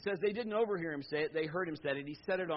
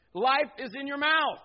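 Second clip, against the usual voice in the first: louder, higher and slow; emphatic proclamation; 7 semitones higher, 8 dB louder, slower than usual. Real, not acted. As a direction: drive the point home slowly. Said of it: "preacher's climax".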